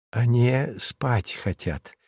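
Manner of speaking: put-on soft, slow aside from an old nanny; a nanny murmuring, gentle and slow; sleepy nanny. A narrator's reading. The nanny tells the father the child is sleepy, softly and slowly. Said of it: "заметила няня".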